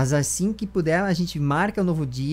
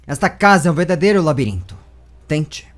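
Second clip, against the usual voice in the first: taunting villain; 9 dB louder than usual. Acted.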